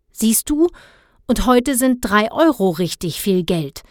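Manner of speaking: put-on pointed, defiant kid; boy stubbornly answering his father. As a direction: throw his own words back at him. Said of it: "sagte Dennis trotzig".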